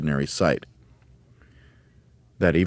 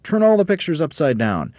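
raised, forceful command; Mugglewump's cry; 11 semitones higher, 6 dB louder than usual. A narrator's reading. Mugglewump directing the birds in the Twits' house, crying out. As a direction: cry it high and loud to the helpers. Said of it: "cried Mugglewump".

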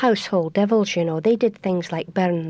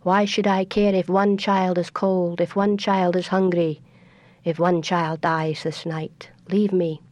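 cold proud tree. Acted. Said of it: "the great tree looked down and said".

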